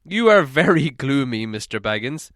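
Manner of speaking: a hint of a stern dwarf king; lightly voiced proud dwarf; Thorin. Thorin chiding a gloomy Bilbo, lightly voiced stern dwarf.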